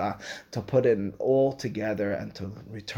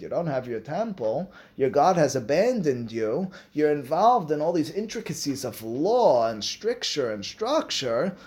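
mildly acted missionary pitch, rising higher as it builds; persuasive appeal; 3 semitones higher than usual. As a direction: build from plain reasoning to a raised, inviting call. Voicing the Christians' appeal to led-astray Jews.

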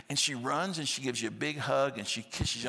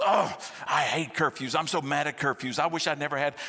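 mock teen; 3 semitones higher, 4 dB louder than usual. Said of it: "the fifteen-year-old daughter goes".

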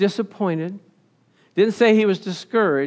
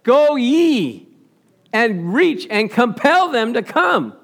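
preached command; 4 semitones higher, 4 dB louder, slower than usual. Retold or imitated. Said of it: "needed someone to what?".

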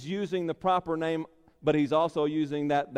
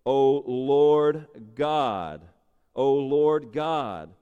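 slow, drawn-out, louder invocation; Moses' address; 5 dB louder, much slower than usual. Retold or imitated. Preacher voices Moses addressing God, slow and solemn. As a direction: call out to God slowly and solemnly. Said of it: "notice how Moses addresses the Lord".

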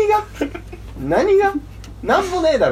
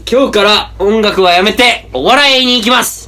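mock announcement. Mock public retirement announcement.

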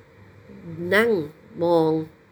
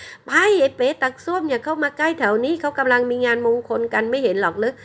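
scornful shooing; 8 semitones higher than usual. A narrator's reading. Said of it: "ส่งเสียงไล่ด้วยความรังเกียจ".

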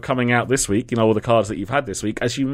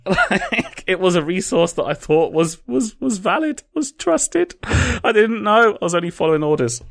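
defensive high-pitched excuse; 8 semitones higher than usual. Real, not acted. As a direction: pitch climbing higher and higher.

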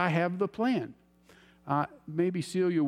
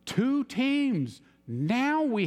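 excited realization; 8 semitones higher, much slower than usual. Retold or imitated. Sudden realization in vision story.

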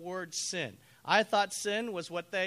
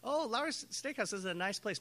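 courteous, non-committal reply; polite evasion; 3 dB quieter than usual. Retold or imitated. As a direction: politely humour the suggestion. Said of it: "Have you ever been that polite?".

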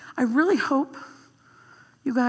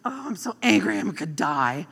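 drama queen; 4 semitones lower than usual. Retold or imitated. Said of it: "he's like".

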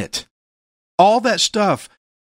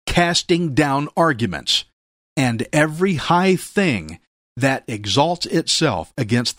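scripture reading. Acted. Reads scripture aloud.

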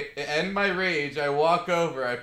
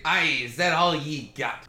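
taunting character voice; 4 dB louder than usual. Acted. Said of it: "I will laugh and say".

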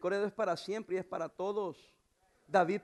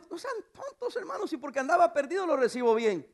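retold rebuke; 7 semitones higher, 6 dB louder than usual. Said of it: "Y yo digo".

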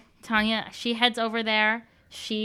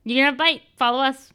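commanding; 3 semitones higher, 4 dB louder, faster than usual. Acted. Ordering the captain.

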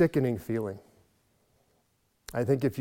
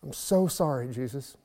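pleading apology; 2 semitones higher, slower than usual. Retold or imitated. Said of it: "ended up yelling at the top of his lungs".

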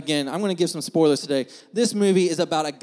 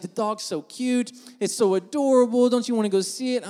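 higher-pitched imitation of a gushing girlfriend; pleading girlfriend; 5 semitones higher, 3 dB louder than usual. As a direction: coax like a smitten dog lover, mildly mocking. Partner pleading to see a movie.

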